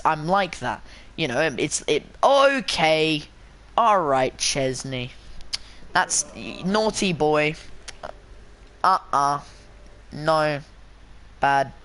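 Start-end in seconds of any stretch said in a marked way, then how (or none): 2.2-5.1 playful mock scolding. Real, not acted. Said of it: "I don't know why I'm speaking like this". 5.9-11.7 slow, spaced-out telling-off; half-joking reprimand in short bursts; playful mock scolding. Real, not acted. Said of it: "I don't know why I'm speaking like this".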